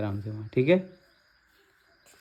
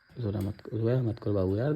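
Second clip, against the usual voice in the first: soft, low soothing voice; gentle consoling; 5 semitones lower, 6 dB quieter than usual. Real, not acted. Husband asks crying wife not to cry, gentle soothing. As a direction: comfort her quietly.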